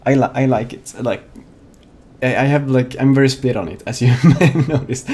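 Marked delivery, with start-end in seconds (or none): 3.9-5.1 laughing at himself mid-sentence. Real, not acted. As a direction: chuckle through the words. Laughs at own stutter.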